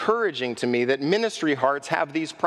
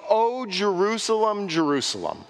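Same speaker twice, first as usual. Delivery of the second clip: lament; 2 semitones higher than usual. Acted. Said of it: "his heart is engaged".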